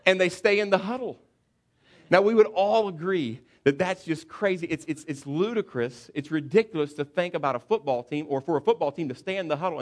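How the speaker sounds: laughing. Real, not acted. Preacher to congregation, laughing at the silly huddle. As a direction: laugh at the absurdity while speaking.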